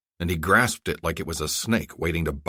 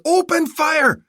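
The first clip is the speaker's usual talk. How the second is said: even higher, louder "Open fire!"; frantic repeated yell; 7 dB louder, much slower than usual. Acted. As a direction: repeat it more desperately. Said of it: "he yelled to his aide".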